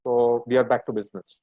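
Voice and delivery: speaking through a face mask; muffled voice behind a mask. Real, not acted. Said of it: "my voice will be a bit muffled because I'll be speaking ... using my face mask".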